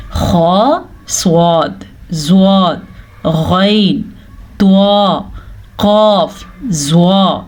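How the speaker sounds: "خو، صاد، زواد" each full-mouthed and separate; heavy letters. Shown as a demonstration. Teacher lists always-heavy letters, each pronounced full and heavy. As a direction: give every letter from "خو" to "زوا" a thick, heavy sound. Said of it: "ہمیشہ پر یعنی کہ موٹے پڑھے جاتے".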